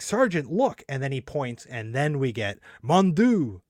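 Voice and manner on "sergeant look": high, urgent comic call; soldier voice. Retold or imitated. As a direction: point and call out. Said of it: "he's like".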